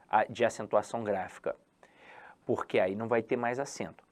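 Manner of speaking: soft unvoiced whisper to the class; whispered aside. Real, not acted. Teacher confides the tricky rule, whispering. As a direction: let it slip out as a breathy secret.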